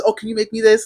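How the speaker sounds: a touch of keen interest, retold; interested mom. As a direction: lightly imitate an intrigued mother asking. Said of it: "she gets really interested".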